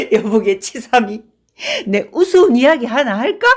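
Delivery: put-on drunk man laughing through his words; chuckling, loud and merry. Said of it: "웃는 이는 더욱 웃으며".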